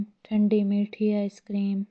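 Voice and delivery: calling out wares like an ice-cream seller; sing-song hawker's cry down the lane; vendor's street call. Acted. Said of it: "अब आवाज़ लगा".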